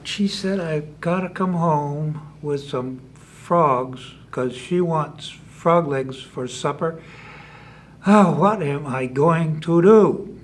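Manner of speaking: slow, drawn-out fretting; mild slow lament; worried musing. Acted. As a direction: think it over slowly, a touch of worry. Possum worries aloud in story.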